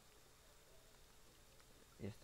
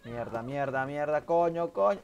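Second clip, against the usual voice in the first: cursing under breath; 3 semitones higher, 9 dB louder, slower than usual. Real, not acted. Maldice tras fallar en partida.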